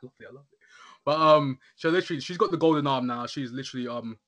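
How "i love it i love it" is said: gushing fan. Retold or imitated. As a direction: squeal it like a thrilled fan. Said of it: "I was like".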